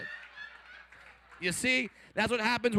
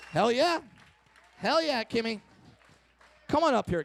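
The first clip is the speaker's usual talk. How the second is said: louder, higher hyping; hype-man call; 5 semitones higher, 4 dB louder than usual. Real, not acted. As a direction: pump up the crowd. Hyping audience member onstage.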